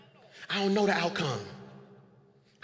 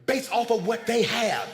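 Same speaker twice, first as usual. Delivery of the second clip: said slowly; 3 semitones higher, slower than usual. Shown as a demonstration. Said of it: "I'ma say it again slow".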